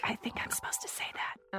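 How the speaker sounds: soft aside whisper. Acted. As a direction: whisper it to your partner.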